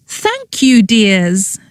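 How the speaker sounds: high trilling ghostly aunt. Acted. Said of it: "trilled a voice".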